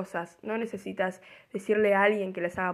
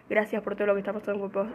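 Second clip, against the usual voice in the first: rushed; faster than usual. Real, not acted. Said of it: "Estoy acelerada".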